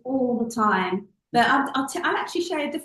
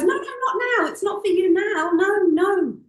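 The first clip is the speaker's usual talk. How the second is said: high, louder firm refusal; brain shutting it down; 7 semitones higher, 5 dB louder than usual. Retold or imitated. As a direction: slam the door on the hope, firmly. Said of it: "your brain goes".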